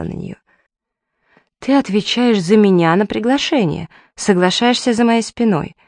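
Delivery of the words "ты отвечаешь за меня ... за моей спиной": protest, hurt and angry; indignant. A narrator's reading. Andy furious at Emily.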